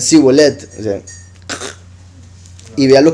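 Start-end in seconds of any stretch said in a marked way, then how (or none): 0.0-0.7 Sibolet with a plain s; wrong Sibolet. Shown as a demonstration. Teacher shows how the Ephraimites said Sibolet. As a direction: say Sibolet with s, a bit louder. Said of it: "Entonces decían".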